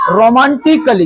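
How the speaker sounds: "रोमांटिकली" ending in short "klee"; silent A. Shown as a demonstration. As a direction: model "रोमांटिकली" without an "ai". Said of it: "क्या पढ़ेंगे इसको?". ("रोमांटिकली" में ए silent रखकर)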